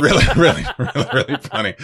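laughing through the words; can't stop laughing while talking. Real, not acted. Laughing about funny email.

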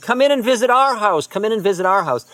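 put-on high, loud child's call; yelling child. Little girl yelling to the guru to come in, high and loud. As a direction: shout the invitation across the yard. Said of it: "She yells at Maharaji".

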